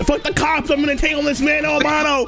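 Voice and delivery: defiant yelling. Acted.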